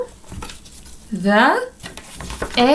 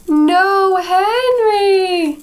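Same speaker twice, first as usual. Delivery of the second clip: frog's reply; 7 semitones higher, much slower than usual. A narrator's reading. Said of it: "the frog says".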